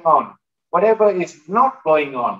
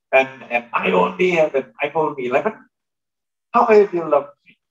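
put-on whiny child complaint; 2 semitones higher than usual. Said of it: "they push back and say".

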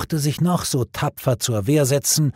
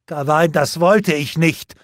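higher, louder anguished cry; 6 semitones higher, 5 dB louder than usual. A narrator's reading. Lancelot crying out to the dying Gawain in anguish. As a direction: burst out in horror at what you did. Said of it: "schrie Lancelot auf".

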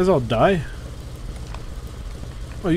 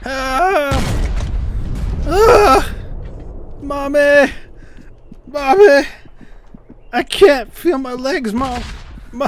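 man down shout; 7 semitones higher, much slower than usual. Pretend. Mock wounded soldier cries.

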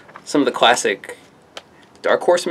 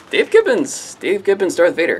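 excited; 6 semitones higher than usual. Real, not acted. Excited about the artist.

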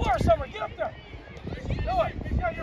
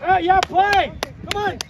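sideline shout; 5 dB louder than usual. Real, not acted. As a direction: shout across the field.

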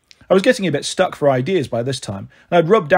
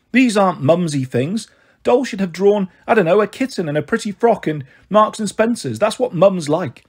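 higher-pitched, upset apology; acted touch of crying in a raised voice; tearful; 4 semitones higher than usual. Mother apologising over the birthday card, tearful. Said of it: "then she started crying again".

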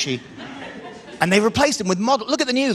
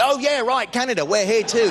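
sudden remembering; 4 semitones higher than usual. Pretend. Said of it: "like they just remembered".

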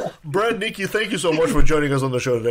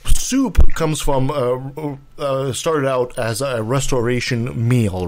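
conspiracy pundit; 2 semitones lower than usual. Acted. Mock pundit conspiracy rant.

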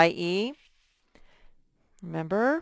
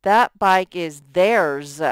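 slow and louder, landing on "theirs"; slow right version; 6 dB louder than usual. Shown as a demonstration. Teacher gives the right pronoun slowly to the class. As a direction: settle firmly on "theirs". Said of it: "We would use the pronoun theirs".

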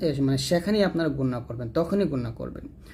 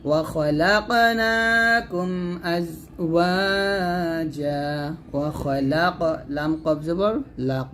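slow melodic tajweed chant; Quran recitation; much slower than usual. Shown as a demonstration. Teacher recites the verse for students, slow chant. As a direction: draw the verse out slowly and melodically.

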